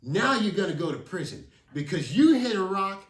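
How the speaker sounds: nail them with it; angry accusation. Retold or imitated. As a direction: Rick threatening prison. Rick accusing the kids.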